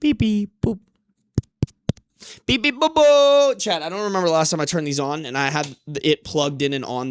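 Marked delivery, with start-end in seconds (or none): 2.5-3.6 much higher, louder silly beeping; playful beeps. Real, not acted. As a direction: boop it like a toy robot. Playful noises at cat.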